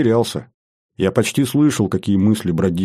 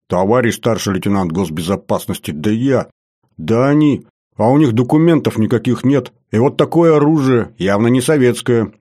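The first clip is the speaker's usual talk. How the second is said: indignant complaint, climbing in pitch; indignant outburst; 3 semitones higher than usual. Acted. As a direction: sputter in self-justifying indignation. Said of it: "возмущённо заорал особист Паша".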